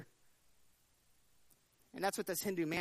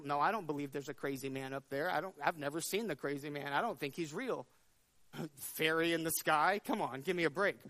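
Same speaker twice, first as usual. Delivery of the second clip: scoffing disbelief; 5 semitones lower than usual. Acted. Ants in the anthill dismissing the man above, scoffing. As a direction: brush off the crazy man with a scoff.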